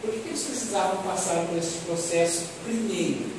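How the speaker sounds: normal talking voice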